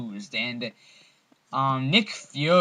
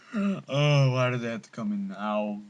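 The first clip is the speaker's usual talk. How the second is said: talking through hiccups. Real, not acted. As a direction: hiccup mid-sentence. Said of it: "Oh, I got the hiccups".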